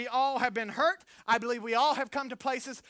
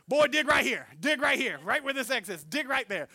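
put-on louder, firm old-man command; grandpa's order; 3 dB louder than usual. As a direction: bark the order at the boy. Grandfather ordering boy to dig.

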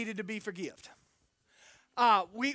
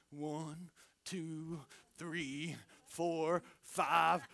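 counting paces under the breath, much softer; hushed counting; 7 semitones lower, 7 dB quieter, much slower than usual. Retold or imitated. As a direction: count the steps in a low hush, secretive. Grandfather counting paces secretly.

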